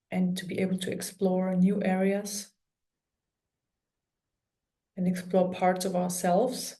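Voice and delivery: calm meditation guide with long pauses; guided meditation. Real, not acted. Healer guiding listeners through an energy clearing, calm guided meditation. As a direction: talk them gently through it, pausing often.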